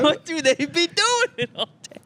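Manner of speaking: put-on high, slow African American accent. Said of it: "You just do it in character".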